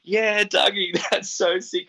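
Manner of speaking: high, laughing impression of a thrilled friend; stoked mate. Friend Berto cheering the wrong-room visitor on, high and laughing. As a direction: play the buddy who thinks it's the coolest thing. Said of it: "He's like".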